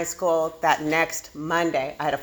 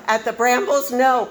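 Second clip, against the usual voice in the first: much higher, louder dismay; can't believe it happened there; horrified; 9 semitones higher, 6 dB louder than usual. Retold or imitated. Daughter recalling her horror, shocked high wail.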